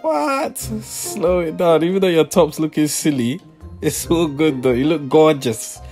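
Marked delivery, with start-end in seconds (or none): 0.0-0.6 surprised. Real, not acted. Surprised shout. 0.6-1.8 drawn out slowly. Pretend. Slowed words.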